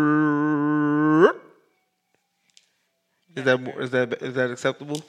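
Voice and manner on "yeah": hoarse rasp, drawn out; raspy whisper. Real, not acted. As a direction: croak it with no voice. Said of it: "I have no voice".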